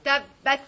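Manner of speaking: "Tabbat" as two firm halves, tab-bat; "Tabbat" with the middle consonant doubled; stressed doubling. Shown as a demonstration. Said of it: "with stress indicating the doubling".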